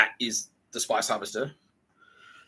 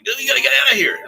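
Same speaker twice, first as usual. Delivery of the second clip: much higher, louder rescuing shout; urgent shout; 10 dB louder than usual. Retold or imitated. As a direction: yank him out with your voice. Someone grabs him from behind.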